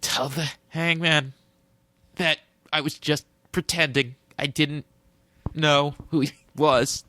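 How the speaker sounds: halting mock deathbed delivery; dying boy's last words. Dying kid sending the Hangman last words, mock halting.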